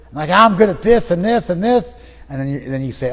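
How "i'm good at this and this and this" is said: high, loud self-defence; acted defiance. Client defending themselves after being put down, defiant. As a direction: insist indignantly, hitting each item.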